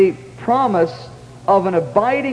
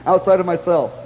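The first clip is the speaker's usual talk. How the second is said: pleading; 3 semitones higher than usual. Retold or imitated. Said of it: "I was pleading with the Lord".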